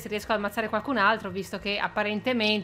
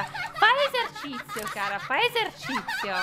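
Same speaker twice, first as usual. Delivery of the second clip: high, slow teasing singsong; mocking taunt; 10 semitones higher, slower than usual. Real, not acted. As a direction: tease her sweetly and slowly. Taunting victim sing-song. (presa in giro acuta e lenta)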